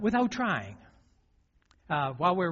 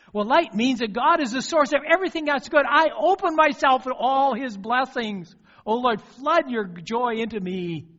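loud, higher prayer calling on the Lord; fervent prayer; 8 semitones higher, 7 dB louder than usual. Acted. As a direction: pour it out to God with full force. Leads congregation in fervent prayer.

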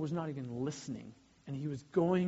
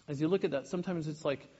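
ordinary talk

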